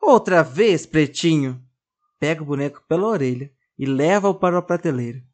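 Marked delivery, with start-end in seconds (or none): 0.0-1.6 put-on cross little girl scolding her doll, raised voice; louder annoyed reproach; angry scolding. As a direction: scold him for hiding again.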